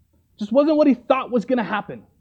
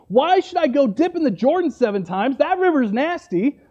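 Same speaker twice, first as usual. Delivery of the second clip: higher, indignant retold complaint; upset, mock tantrum; 4 semitones higher than usual. Preacher voicing Naaman refusing the Jordan dip, mock upset. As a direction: complain like a mildly hammed-up sulker. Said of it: "he gets so upset".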